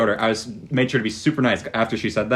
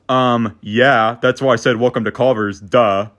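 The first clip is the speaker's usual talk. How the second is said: snotty attitude. Retold or imitated. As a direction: talk down to the customer. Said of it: "continues giving attitude".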